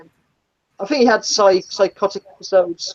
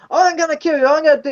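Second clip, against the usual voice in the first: imitating a threatening yell, pitched higher; mock angry shout; 7 semitones higher than usual. Retelling the passenger shouting threats at the driver, mock yell. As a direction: play the raging passenger's threat. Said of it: "he's shouting".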